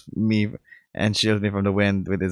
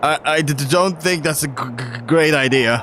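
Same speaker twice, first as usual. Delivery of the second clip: stammering fear; 5 semitones higher than usual. Acted. Terrified on rooftop.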